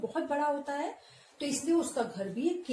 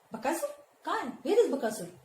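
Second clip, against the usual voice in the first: high, sudden feigned surprise; mock surprise; 5 semitones higher than usual. Teacher voicing Bhim pretending surprise at the demon. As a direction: act startled, teasing. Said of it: "Bhim एकदम से कहता है".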